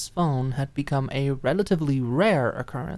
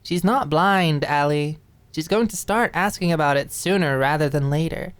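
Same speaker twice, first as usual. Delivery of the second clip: exasperated friend; 4 semitones higher, 4 dB louder than usual. Acted. Mona scolding Alicia.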